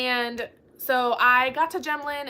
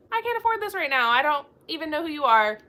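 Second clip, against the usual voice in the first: high dismissive; 4 semitones higher, 4 dB louder than usual. Retold or imitated. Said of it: "And I was like".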